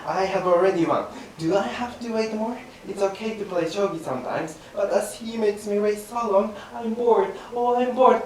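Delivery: fast, giggling through the lines; a bored player's lines spoiled by giggles; laughing take. Acted. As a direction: crack up while reciting, fast. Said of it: "That's not yawning".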